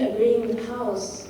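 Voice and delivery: slow greenhouse, each half punctuated; halt between words. Shown as a demonstration. Teacher demonstrating punctuation, greenhouse slowed and split. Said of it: "feel the punctuation at the end of each word".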